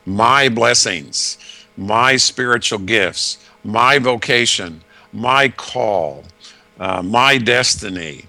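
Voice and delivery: each "my" set out in a measured list; slow list leaning on every "my"; stress on MY. Retold or imitated. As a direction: quote each phrase separately, "my" weighted. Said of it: "you'll often hear the word "my".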